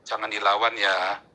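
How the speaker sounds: low, slow retold caution; imitated calming father. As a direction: voice a father gently holding someone back. Menirukan nasihat ayahnya. (tiruan nasihat ayah, rendah dan pelan)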